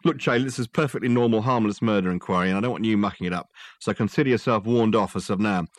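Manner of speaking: a police sergeant losing patience, laying down the law; annoyed cop threatening a meddling detective; angry sergeant. Acted. Gilks warning Dirk off.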